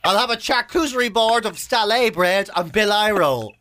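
slow, laughing fancy order; slow mock-refined restaurant order through laughter; mock posh diner. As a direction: order jail food like fine dining. Mock posh order of prison food.

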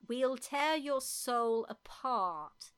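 put-on slow, deliberate English-accented threat. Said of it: "That's English, isn't it?".

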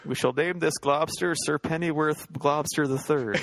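pompous Victorian. Pretend. Mock Victorian naming the globster.

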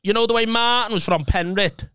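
mum's voice. Retold or imitated. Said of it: "and she goes".

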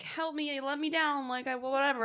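half-hearted imitation of a begging girl; mock pleading girl. Alice pretending to be tied up, mild mock pleading to Daddy. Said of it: "she's like".

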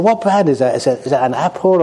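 curious monk. Retold or imitated. Monk offered an iPad asks about the brand, laughing. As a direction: ask it half laughing, eager. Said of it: "And he said".

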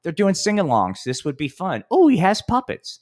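hammed-up eager fan; mock excited listener. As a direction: play a gushing fan who expects a kids' show. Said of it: "people don't back into this going".

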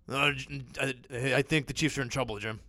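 lightly voiced sportscaster impression; hesitant commentator, halting start; Romo. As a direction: slip lightly into a TV analyst's hesitant call. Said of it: "That's a good impression".

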